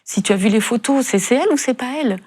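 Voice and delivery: mildly exasperated, pressing questions; a touch of angry impatience, pitch climbing; retold anger. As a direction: replay an angry demand without shouting. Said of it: "je me mets même en colère".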